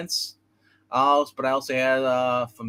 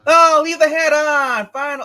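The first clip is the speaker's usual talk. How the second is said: high whiny plea; 13 semitones higher, 8 dB louder, slower than usual. Real, not acted. Protesting friend removing hat.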